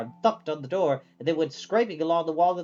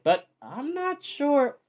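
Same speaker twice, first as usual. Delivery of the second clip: unsure Calcifer; 10 semitones higher, much slower than usual. A narrator's reading.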